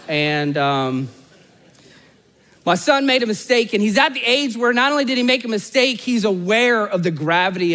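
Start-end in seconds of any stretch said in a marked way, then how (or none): 2.6-7.7 emphatic preaching. Real, not acted. Preacher stresses the story's point.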